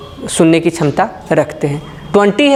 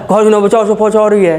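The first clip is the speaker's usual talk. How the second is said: hammed-up station announcer mumble; mumbled announcer imitation. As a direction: imitate a muffled platform announcement. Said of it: "वो ऐसे कुछ बोलता है".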